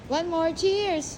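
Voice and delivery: rally everyone for another toast; calling a toast. Real, not acted.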